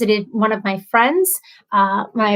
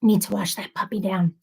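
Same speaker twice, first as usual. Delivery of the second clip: talking while chewing; words round a bite of food; mouth full; 3 semitones lower, 5 dB quieter than usual. Real, not acted. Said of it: "my chewing is really loud".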